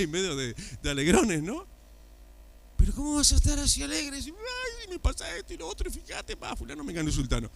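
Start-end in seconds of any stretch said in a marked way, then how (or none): 2.8-7.5 high, whining mock complaint, fast; hammed-up moaning believer, rushed; mock whiny complainer. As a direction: parody a sad churchgoer in a high whine. Mocking a gloomy believer.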